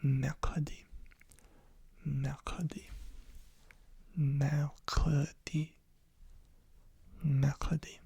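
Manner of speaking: mercredi said the French way, with a throaty r; French pronunciation. Shown as a demonstration. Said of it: "Wednesday is".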